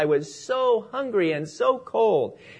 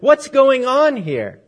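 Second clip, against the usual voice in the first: high, louder, drawn-out challenge; storyteller acting an indignant manager; alarmed demand; 7 semitones higher, 5 dB louder, slower than usual. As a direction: demand an explanation, stretching the words. Manager rushes over to object.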